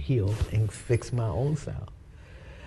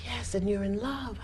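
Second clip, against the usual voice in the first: whispering Spirit; 9 semitones higher, 9 dB quieter than usual. Retold or imitated. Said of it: "the Spirit say".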